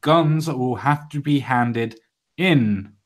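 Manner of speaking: very slow, measured news reading; emphatic read-aloud. Acted. Host reading out a South African gun law, slow and emphatic. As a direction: spell it out phrase by phrase, with weighty pauses. Reads out news item deliberately.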